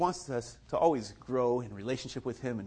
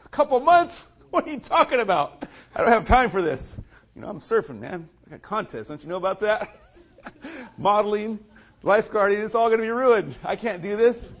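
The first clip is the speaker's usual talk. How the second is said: high, loud disbelief at the news; retold shocked outrage; 8 semitones higher, 5 dB louder than usual. Surfer hearing he gets a cast for months, shocked. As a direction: play up the horror of a ruined summer.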